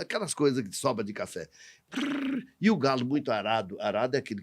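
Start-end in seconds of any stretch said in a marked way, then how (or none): 1.9-2.4 high rolled "prrr" trill; quick tongue-rolled noise, pitched high; imitated trill. Storyteller imitates the sound in the yard, high trill. Imitated call scattering feed to animals.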